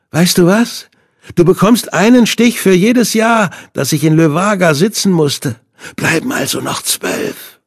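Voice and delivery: Hinde, high and taunting; villain's voice. A narrator's reading. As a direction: relish the cruelty.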